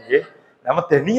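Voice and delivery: ordinary talk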